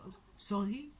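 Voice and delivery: put-on light French-accented apology; imitated French accent. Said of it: "she's a French accent".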